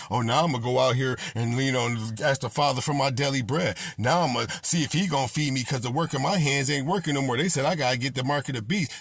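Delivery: low, sneering mimic of a worker suddenly praying; mocking a believer. Preacher mimicking a worker who turns to the Father too late, low mocking voice. Mocks a congregant's sudden faith.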